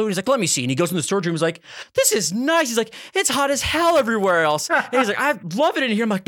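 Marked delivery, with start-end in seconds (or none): 0.3-0.6 higher, brighter take on the boss; imitating the boss. Boss answering a complaint, lightly imitated higher. 1.9-6.0 high, pleased boss voice; imitating the boss. Boss tells a freezing employee he loves it, high and pleased. Boss enjoying the cold room.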